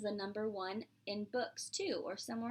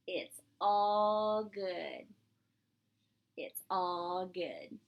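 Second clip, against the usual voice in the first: slow reassurance; 3 semitones lower, much slower than usual. Acted. Pete's calm catchphrase.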